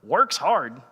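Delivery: "Works hard?" asked with disbelief, falling on "Works"; incredulous question. Retold or imitated. Worker confronting his friend back at the shop, incredulous. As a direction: question "Works hard?" like you can't believe it. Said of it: "and I was like".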